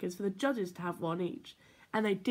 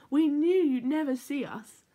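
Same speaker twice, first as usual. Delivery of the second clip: gleeful; 5 semitones higher, 6 dB louder than usual. A narrator's reading. Bears gleeful under paper chain.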